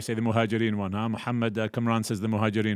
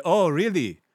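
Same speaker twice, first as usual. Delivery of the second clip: high, loud proud boast, slowing at the end; triumphant family bragging, drawn out; 7 semitones higher, 5 dB louder than usual. Acted. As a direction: crow over the rivals like a proud clan. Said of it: "they say".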